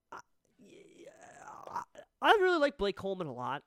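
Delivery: hushed confession whisper. Real, not acted. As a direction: whisper it like a secret. Confessing fondness for rival player.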